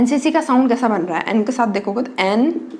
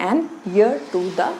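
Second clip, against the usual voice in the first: slow model reading; much slower than usual. Shown as a demonstration. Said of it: "इसलिए आप क्या लगाते हैं".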